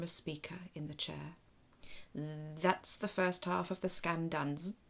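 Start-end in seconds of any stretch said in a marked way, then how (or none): 2.1-4.6 buzzing robot alien. Acted. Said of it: "the captain buzzes". 4.6-4.8 machine buzz. Acted. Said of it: "the captain buzzes".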